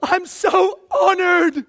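a hammed-up happy martyr; joyful martyr. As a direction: cheer like it's an honor to suffer. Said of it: "they get beaten to death and they go".

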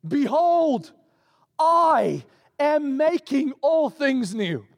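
high, very slow, grand declaration; voice of God. Acted. God on the throne declaring to John, high and very slow. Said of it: "he who was seated on the throne said".

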